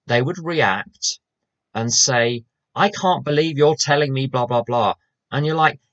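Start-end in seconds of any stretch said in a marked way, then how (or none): 2.7-4.9 higher-pitched mock indignation; imitated overreaction. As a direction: mimic a reactive person taking offence. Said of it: "was a little bit reactive".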